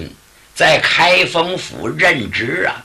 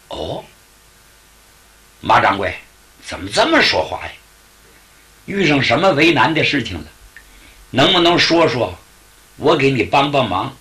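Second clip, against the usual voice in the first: put-on kindly young guest; 2 semitones lower, faster than usual. Yunrui voiced lower.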